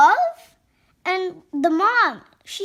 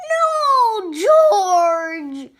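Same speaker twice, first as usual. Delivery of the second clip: mad mother; 6 dB louder than usual. Acted. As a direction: play a mother losing patience. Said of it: "She's getting more mad".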